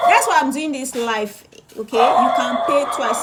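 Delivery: loud, pressing reminder; emphatic shouting. Real, not acted. Seller stressing to viewers they can pay twice, loud. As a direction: push it out loud and firm. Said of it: "Yes, I'm emphasizing".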